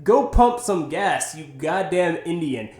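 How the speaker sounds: slow, deliberate imitated taunt; retold redneck insult. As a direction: act out the drunk man's slow jab. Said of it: "he walks up to him and says".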